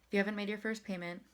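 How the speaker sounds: quick, shallow-breath take, a little fast. Shown as a demonstration. Showing viewers a little-breath take. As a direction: grab a small sip of air and hurry through. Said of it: "So if I take a little breath".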